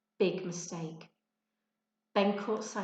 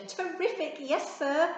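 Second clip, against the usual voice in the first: beaming; 8 semitones higher, 4 dB louder than usual. Acted. Ben beamed at teacher.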